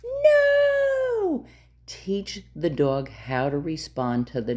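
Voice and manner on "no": sharp high barked no; firm command no. Shown as a demonstration. Dog trainer snapping a firm no at the dog. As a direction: snap the word like a correction.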